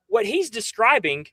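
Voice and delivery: ordinary delivery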